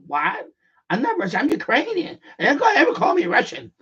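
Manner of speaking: mock outrage, rising in pitch; offended receptionist. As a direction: imitate her taking sharp offense. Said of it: "she got mad".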